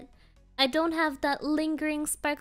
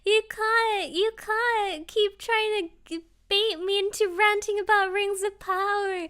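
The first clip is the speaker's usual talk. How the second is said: higher, louder, slow whiny begging through laughs; mock pleading; 5 semitones higher, 4 dB louder than usual. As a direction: beg Gonji to stop, half laughing. Begging chat to stop baiting.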